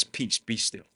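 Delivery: low, soft, unruffled command; calm command. Acted. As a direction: quietly settle the storm. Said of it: "and he's calm".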